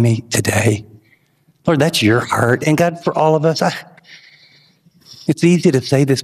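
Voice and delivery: closing prayer to God, earnest and low. Real, not acted.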